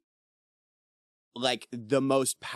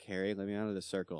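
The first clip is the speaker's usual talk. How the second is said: terrified; 3 semitones lower, 8 dB quieter, much faster than usual. Retold or imitated. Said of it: "she was, like, terrified".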